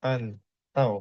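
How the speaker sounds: pantau drawn out slowly; reading demonstration. Shown as a demonstration. Teacher showing class how it reads, pantau said slowly. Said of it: "Ini cara bacanya".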